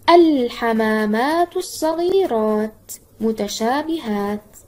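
الحمامات opened slowly as "al", with a clearly held l; initial moon lam. Shown as a demonstration. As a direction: draw out الحمامات الصغيرات متشابهات, sounding the first l fully. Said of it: "انتبه إلى اللام القمرية إذا بدأ".

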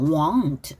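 "won't" through the nose, like wong; nasal won't. Shown as a demonstration. Teacher showing students the nasal sound in "won't". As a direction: hum the N of "won't", barely any T. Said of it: "비음이에요".

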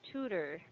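"tutor" with a long U first syllable; long U, schwa. Shown as a demonstration. Teacher modelling the word for a student, long U in "tutor". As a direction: say "tutor" with a weak schwa ending. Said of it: "First syllable is a long U sound".

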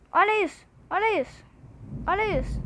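loud, repeated urging to look; insistent exclamations. Real, not acted. Streamer urging viewers to watch the hacker, insistent loud exclamations. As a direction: hammer it home to the chat.

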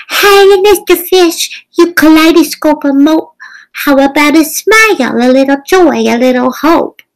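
high, bright-eyed squid voice way up in pitch; a squirmy, slightly rude squid teasing the fish; sassy squid. A narrator's reading. Squid character speaks.

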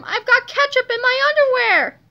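high, loud yell of disgust; outraged scream. A narrator's reading. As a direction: bellow it from behind the restroom door. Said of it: "screamed Mister Krupp from inside the restroom".

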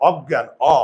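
অজ্ঞান with open অ, jaw dropped; open jaw a sound. Shown as a demonstration. Teacher to class, modelling the right open অ. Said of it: "চোয়াল খুলে যায়".

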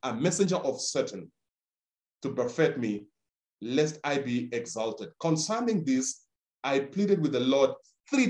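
scripture reading. Acted. Scripture reading over music.

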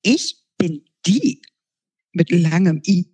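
sun sprite. Acted. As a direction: chatter like an excited sprite. Sun creature introduces itself.

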